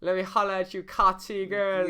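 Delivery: loud, high mock Toronto accent. Imitating Toronto memes for a friend, exaggerated Toronto accent. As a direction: stretch out a joking Toronto slang accent. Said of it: "Toronto versions of anything".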